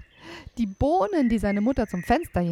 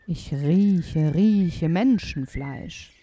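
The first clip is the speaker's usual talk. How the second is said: giant sniffing; 3 dB louder, much slower than usual. Acted.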